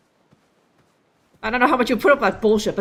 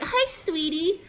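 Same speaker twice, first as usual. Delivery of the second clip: high, sweet pleading voice; shy cutie pie; 7 semitones higher, slower than usual. Acted. Shy girlfriend sweetly begging him to do the dishes. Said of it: "A shy cutie pie".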